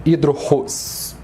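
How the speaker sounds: "hidrorros" slowed, final "ros" stressed. Shown as a demonstration. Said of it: "A sílaba mais forte é ros".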